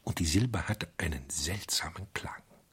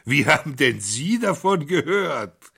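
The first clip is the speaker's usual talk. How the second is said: higher, louder, startled questioning; sudden interest; 9 semitones higher, 6 dB louder than usual. Acted. The criminal presses the priest, startled and curious. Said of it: "mit plötzlichem Interesse".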